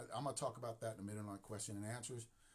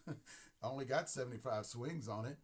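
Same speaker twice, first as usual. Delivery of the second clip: thicker country accent with a laugh. Shown as a demonstration. Repeating the player's excuse in a heavier country accent. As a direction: lean into the country twang. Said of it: "See my country accent?".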